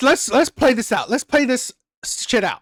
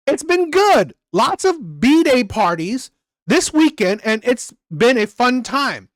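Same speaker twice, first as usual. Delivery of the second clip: deliberate rereading of the messages; rereading the chat. Retold or imitated. Streamer rereading the dating chat, deliberate reading. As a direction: read her lines back slowly. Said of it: "I literally read it to you".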